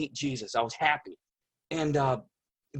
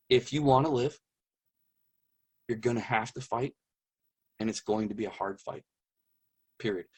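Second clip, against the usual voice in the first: quiet, unhurried and steady, with no urgency; very calm; 3 semitones lower, 3 dB quieter than usual. Retold or imitated. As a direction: deliver it as a calm, settled statement, a bit softer. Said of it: "He didn't sound upset. Very, very calm".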